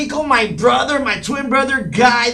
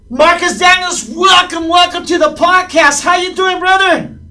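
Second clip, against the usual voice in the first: hype host intro; 4 semitones higher than usual. Acted. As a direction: pump up the guest's entrance. Hyping up the special guest.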